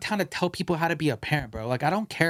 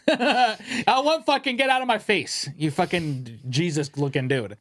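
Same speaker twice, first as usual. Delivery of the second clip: mock angry retort; slower than usual. Telling the hippie to get out of his face, mock angry. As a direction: push the hippie away.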